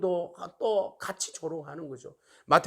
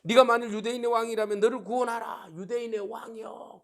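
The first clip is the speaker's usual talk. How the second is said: raised, high-pitched imitation of taunting; mocking jeer; 7 semitones higher, 4 dB louder than usual. Soldiers jeering at the crucified Jesus, mockingly. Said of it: "군인들까지도 조롱합니다".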